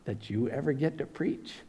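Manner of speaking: quiet, calm, gentle challenge from dad; calm fatherly question. Retold or imitated. Dad calmly answering his son on the phone, quiet and gentle. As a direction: ask it softly, like a wise father. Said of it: "very calmly".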